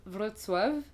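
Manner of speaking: "Wrocław" said the Polish way, as Vrotswav; prononciation polonaise. Shown as a demonstration. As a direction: say "Wrocław" slowly with a ts in the middle. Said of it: "en polonais, ça se prononce". (« Wrocław » prononcé à la polonaise)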